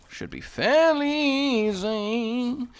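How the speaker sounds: high, slow strained voice; a straining, struggling squeak; struggle voice. Pretend. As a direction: squeeze it out like it's a huge effort. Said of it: "it was the struggle voice".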